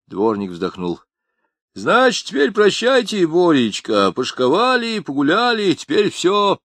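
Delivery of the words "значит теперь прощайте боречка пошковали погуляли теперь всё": much higher, wailing farewell; lightly voiced grieving mother; tearful mother. A narrator's reading. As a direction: lament her son's fate.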